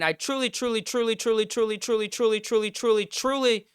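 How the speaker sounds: lightly put-on Asian accent on each truly. Fan joking about refereeing to viewers, mild mock Asian accent. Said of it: "that was like an Asian accent".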